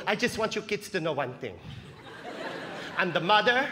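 lightly voiced accented mom; proud mom laying down a fact, lightly accented; mom's declaration. Mom telling her playing kids she is both parents, lightly accented declaration. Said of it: "my mom would just come into the room and go".

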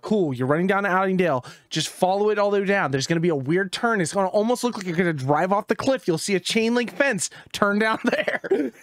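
lightly voiced high hick directions; redneck instructions. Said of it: "straight redneck instructions".

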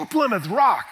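grand build-up. Retold or imitated. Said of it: "Plymouth Rock was like".

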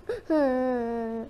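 long, whimpering cry; drawn-out storybook sob; acted sob. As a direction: break into pretend weeping. Boy cries over lost sheep.

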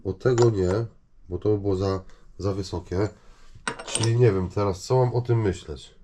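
ordinary delivery

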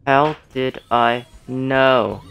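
How did I know drawn out slowly at normal pitch; slow replay. Shown as a demonstration. Streamer repeating the line for viewers, slowly drawn out. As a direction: stretch each word of How did I know. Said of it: "Watch this".

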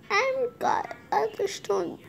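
slow whispered line. Acted. Sneaking in game, slow whisper. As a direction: hush it slowly. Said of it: "whispering in game".

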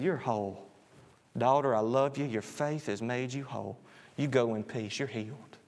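soft, low, gentle reassurance; tender blessing. Acted. Jesus tenderly blessing the healed daughter, soft and warm. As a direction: speak it like a blessing to a child.

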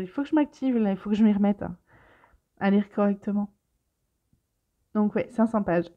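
holding back hiccups; suppressing hiccups. Real, not acted. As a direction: talk while fighting hiccups. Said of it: "j'ai le hockey qui vient d'arriver".

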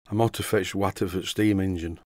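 lightly broad Yorkshire, dropping the little words; Yorkshire dialect. Shown as a demonstration. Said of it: "understand my Yorkshire dialect".

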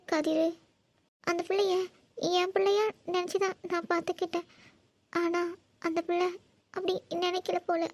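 tearful mother pouring out hurt; halting, weepy phrases broken by pauses; crying. Acted. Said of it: "இப்ப எதுக்கு அழுதுட்டு இருக்க".

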